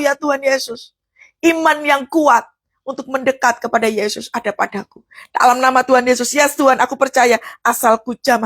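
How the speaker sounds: fervent prayer demo building to a shout; preacher shows how to pray a verse. Shown as a demonstration. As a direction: pray the scripture aloud with rising fire. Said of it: "cara bacanya kayak begini".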